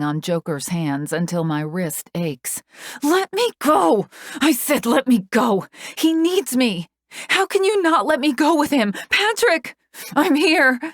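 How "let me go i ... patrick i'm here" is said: high, loud desperate bellow. A narrator's reading. Bellowing after Patrick as he is taken away. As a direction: bellow for him at the top of your lungs. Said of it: "bellowing at the top of my lungs".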